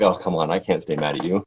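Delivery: soft, low, indulgent parent; mock-exasperated, softly relenting; giving in fondly. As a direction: melt into a quiet, helpless surrender.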